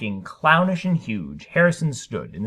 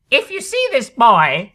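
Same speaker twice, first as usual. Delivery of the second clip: higher, louder urgent warning; ballerina's warning; 9 semitones higher, 7 dB louder than usual. A narrator's reading. Ballerina warning the TV audience, urgent and higher. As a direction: warn the viewers with alarm. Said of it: "said the ballerina".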